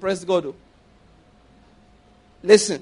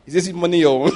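bishop's pointed question; 4 dB louder than usual. Retold or imitated. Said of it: "Oyedepo said".

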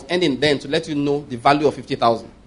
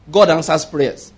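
slow, deliberate declaration; weight on every word, drawn out; emphatic; slower than usual. Real, not acted. Preacher emphasizing to the congregation that prayers are answered, slow and emphatic. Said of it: "that's what I'm gonna emphasize".

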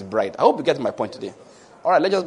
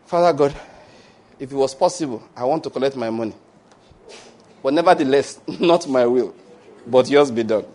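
model prayer. Shown as a demonstration. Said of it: "Say, just take the list and go to God".

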